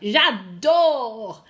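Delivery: J'adore loud, stretched on the last syllable; emphatic model. Shown as a demonstration. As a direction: draw out J'adore with relish for learners. Models emphatic word for pupils.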